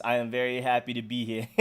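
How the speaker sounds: lightly voiced royal princess; a hint of a polite African princess; Princess Zamunda voice. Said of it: "In my Princess Zamunda voice".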